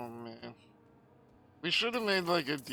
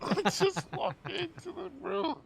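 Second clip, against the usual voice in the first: laughing; 4 dB louder than usual. Real, not acted. Laughing at own death.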